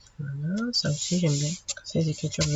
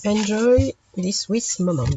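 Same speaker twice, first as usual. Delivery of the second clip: slow, louder English with a heavy French accent; 6 dB louder than usual. Real, not acted. French vlogger presenting paper pads to viewers, in French-accented English. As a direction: savour each English word in a French accent. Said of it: "excusez-moi pour mon anglais".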